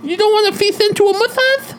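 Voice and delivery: creepy voice. Pretend. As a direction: play the sleazy masseur. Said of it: "he looks like Beetlejuice".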